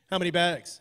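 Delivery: low, serious official question. Retold or imitated. Border officer questions traveler about almonds, serious. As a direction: ask it as a grave interrogation. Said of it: "she got so serious".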